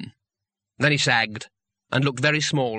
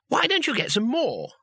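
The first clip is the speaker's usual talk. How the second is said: much higher, bright and eager; 10 semitones higher than usual. A narrator's reading. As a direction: chirp the suggestion helpfully. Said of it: "said Two Flower brightly".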